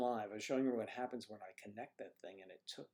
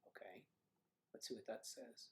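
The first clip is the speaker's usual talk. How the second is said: much softer, reading half under his breath; muttered to self; 14 dB quieter than usual. Real, not acted. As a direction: mumble it to yourself while checking the screen. Reading screen to himself.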